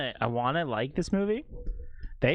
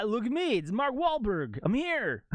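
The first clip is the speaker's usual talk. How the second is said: mock Mark Wahlberg; 9 semitones higher than usual. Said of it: "Like, ah".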